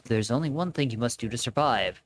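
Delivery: low, hushed mysterious voice; ominous game voice. Acted. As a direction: speak like a cryptic spirit. Reads game character lines.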